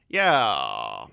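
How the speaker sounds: put-on drawn-out rural Ontario farm accent; Ontario hick accent. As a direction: homespun Ontario hick, stretching the words. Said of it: "that was from the original ... Wingfield Farm".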